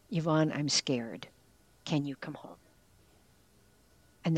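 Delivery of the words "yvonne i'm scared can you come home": put-on a quiet, frightened old man asking for help; retold scared plea. Frightened father pleading on the phone.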